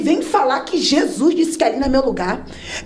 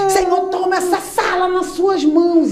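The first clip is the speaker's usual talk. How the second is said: slow, higher pastor intoning; slow preacher prayer; 7 semitones higher than usual. Retold or imitated. Imitating the missionary praying over the room, slow and higher. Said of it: "E eu já".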